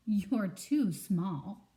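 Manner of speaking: very slow, deliberate put-down; dismissive bear. Acted. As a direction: drag it out like a sleepy bear.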